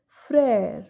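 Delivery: Frère as "frehr", open vowel; accent grave pronunciation. Shown as a demonstration. Teacher repeating the example for viewers, Frère as "frehr". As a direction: say Frère slowly falling, "frehr". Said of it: "has the sound of A".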